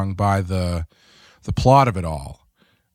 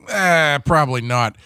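dismissive shrug; 5 semitones higher than usual. Retold or imitated. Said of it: "T'Pol's just like".

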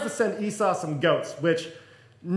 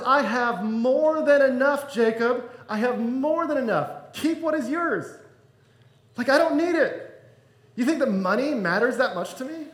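higher-pitched, mildly indignant protest; insistent refusal; 3 semitones higher than usual. Acted. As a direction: act out waving away an unwanted gift. Esau refuses his brother's gifts.

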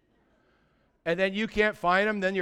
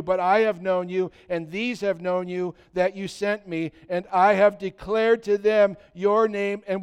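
scripture reading. Acted. Preacher reading John seventeen aloud to the church, solemn and measured. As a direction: read the passage like a solemn prayer.

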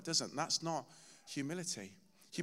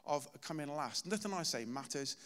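retold frustrated cry to God; 2 semitones higher than usual. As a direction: pour out the fed-up grievance, rising in frustration. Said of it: "I was literally crying out to God".

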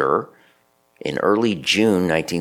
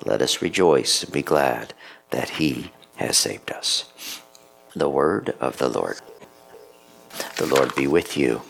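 measured, solemn lector reading the lessons; unhurried liturgical reading; scripture reading; 3 semitones lower than usual. Acted.

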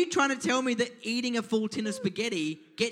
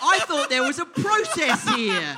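loud, high, drawn-out protest; mock indignation; 9 semitones higher, 8 dB louder than usual. Real, not acted. Defending his guess to laughing friends, mock indignant. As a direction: protest loudly, stretching the words out.

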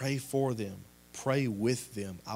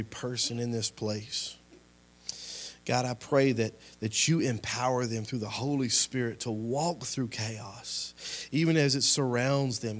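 closing prayer; 3 dB louder than usual. Acted. Pastor praying over the congregation, fervent. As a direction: pray it over the room with conviction.

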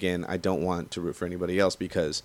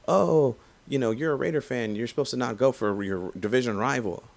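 mocking complainers; 4 semitones higher than usual. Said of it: "They're all like".

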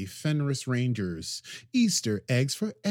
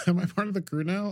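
quick, laughing higher repeat; laughing echo; 7 semitones higher, faster than usual. Retold or imitated. Host repeating co-host's Jurati bit, laughing. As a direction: echo the line through a laugh.

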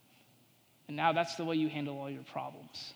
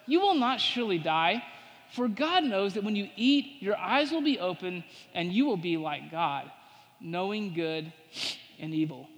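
serpent's proclamation; 4 dB louder than usual. Acted. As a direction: declare the serpent's lie boldly. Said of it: "But the serpent said to the woman".

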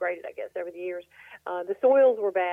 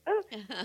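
sneezing; 2 semitones higher, 4 dB quieter than usual. Real, not acted. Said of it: "I gotta sneeze".

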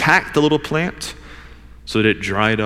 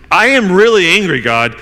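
acted angry declaration, higher and louder; retold anger; 6 semitones higher, 5 dB louder than usual. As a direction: imitate a man heatedly telling God off. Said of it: "his anger is maxed out".

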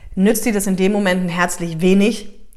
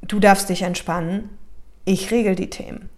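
soothing. Shown as a demonstration. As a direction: tell the child it may rest. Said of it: "ich sag dann zum Beispiel immer sowas wie".

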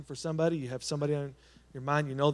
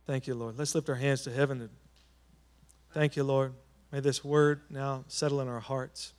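solemn closing blessing; benediction prayer; 2 semitones lower than usual. Acted. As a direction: bless the people as they go. Closing blessing over the congregation.

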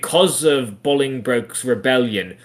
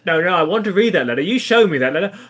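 hammed-up sitcom dad, raised pitch; insistent father; 6 semitones higher, faster than usual. Father demanding son's letter, comic insistence. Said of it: "feels like a sitcom".

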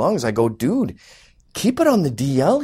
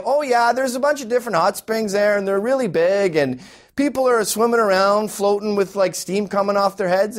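higher-pitched, rambling travel account; know-it-all traveler; 3 semitones higher than usual. Acted. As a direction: mimic someone telling you all about their trip. Mimicking returned travelers' bragging.

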